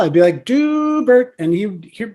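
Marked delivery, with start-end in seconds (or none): 0.4-1.3 high drawn-out call of the name; calling the cat. Retold or imitated. Owner calling the cat through the house, high drawn-out call. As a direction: call him so he comes to find you.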